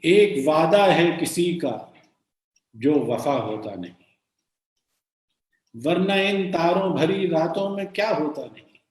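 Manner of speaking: measured Urdu verse reading with pauses; poem recitation. Acted. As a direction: lift each opening phrase, let the refrain fall away. Recites a couplet.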